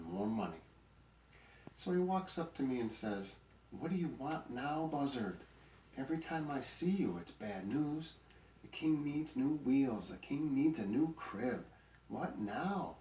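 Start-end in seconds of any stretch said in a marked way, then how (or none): 3.7-13.0 loud, higher-pitched complaining donkey; irritated griping. A narrator's reading. Donkey complaining to the buzzard, loud and exasperated. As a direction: gripe wearily at a pest.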